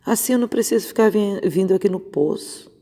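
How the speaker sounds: a hint of an eager woman asking; lightly voiced Samaritan woman. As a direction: lightly act out the woman hurrying her request. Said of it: "E ela falou assim".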